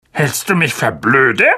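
mild gruff snap; a touch of scorn, understated; snapping at him. Acted. Uncle snapping at Harry over breakfast, mildly gruff. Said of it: "raunzte ihn Onkel Vernon an".

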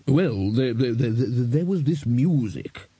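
stuck on a word, then slow; hesitant, reluctant account; halting stammer. A narrator's reading. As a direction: struggle to begin the explanation. Wizard reluctantly explains.

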